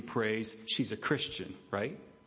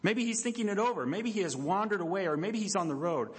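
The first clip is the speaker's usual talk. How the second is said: mocking; 4 semitones higher than usual. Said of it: "Elijah started mocking them".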